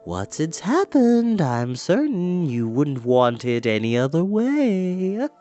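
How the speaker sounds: slow, soothing witch reassurance; calm the frightened boy; reassuring. Acted. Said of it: "in a reassuring tone".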